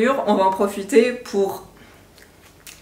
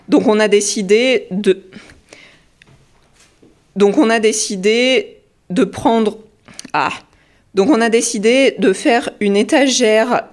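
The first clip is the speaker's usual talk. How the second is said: hiccups; 4 dB louder than usual. Real, not acted. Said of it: "j'en ai marre du hoquet".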